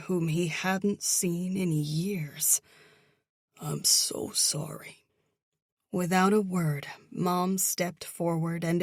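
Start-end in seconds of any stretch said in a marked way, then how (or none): 3.6-5.0 slow, breathy sorry; hushed condolence. Acted. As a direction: whisper it gently in sympathy. Brother consoling grieving sister.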